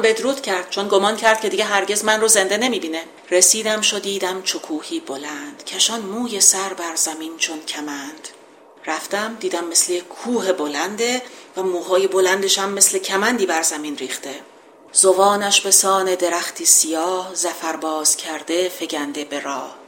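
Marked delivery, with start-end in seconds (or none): 3.3-8.3 measured epic verse reading; poem recitation. Acted. 14.9-19.8 measured epic verse reading; poem recitation. Acted.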